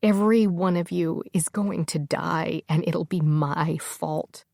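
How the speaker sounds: tearful, slowing to a drawn-out end; panicked tears. Acted. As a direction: voice sinking under guilt and tears. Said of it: "eyes filled with panicked tears".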